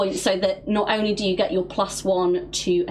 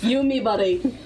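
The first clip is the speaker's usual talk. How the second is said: kissing it better; 5 semitones higher than usual. Acted. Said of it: "try kiss it better".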